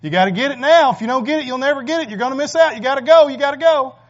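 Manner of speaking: rising pressured yell of the world pushing you on; the world's urging voice. Acted. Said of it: "and it's saying".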